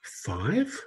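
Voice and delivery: soft, high five; emotional number. Shown as a demonstration. Host playing the emotion game, soft five. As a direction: say it softly. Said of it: "let's play the game".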